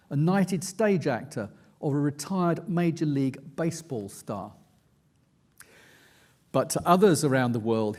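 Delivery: steady, measured reading of his own nonfiction; book reading. A narrator's reading. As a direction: read it like an audiobook narrator, building tension. Reads aloud from his book.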